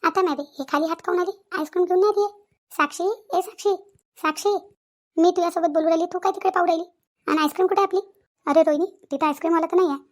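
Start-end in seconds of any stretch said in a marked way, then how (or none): 2.7-4.5 calling out. Acted. Friend calling Sakshi in the park, raised call. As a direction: call her name across the park, higher.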